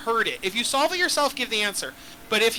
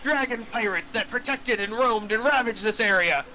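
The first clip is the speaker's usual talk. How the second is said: put-on pirate accent. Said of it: "this is just my accent now".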